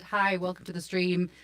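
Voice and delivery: glitchy robotic audio from a bad connection; choppy robot voice over laggy internet. Real, not acted. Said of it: "'cause I sound like a robot".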